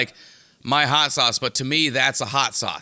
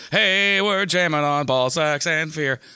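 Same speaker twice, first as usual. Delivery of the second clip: seventies crotch pore; 3 semitones higher than usual. Pretend. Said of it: "The, the crotch pores".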